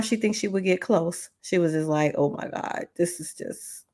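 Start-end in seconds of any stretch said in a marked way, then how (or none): 2.2-3.8 hushed, breathless frustration under the breath; soft exasperated whisper; frustrated whisper. Retold or imitated. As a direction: whisper it like you're at your wit's end. Friend's frustrated inner reaction.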